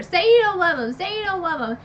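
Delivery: a hint of the Bitch Queen yelling at Farah; mock screaming demand. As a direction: demand it of her like a cruel queen. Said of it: "the Bitch Queen screaming at her".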